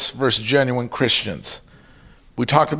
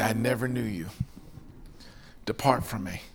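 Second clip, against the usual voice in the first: solemn judgment; 5 semitones lower, 12 dB quieter than usual. Retold or imitated. Jesus speaks on Judgment Day.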